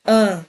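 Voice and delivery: "An" as one pure nasal vowel; isolated nasal "An"; single nasal sound. Shown as a demonstration. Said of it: "um único som anasalado".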